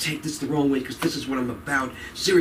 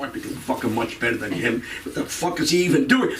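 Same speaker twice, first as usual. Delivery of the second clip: imitated jealous comic; 6 semitones lower than usual. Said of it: "You go".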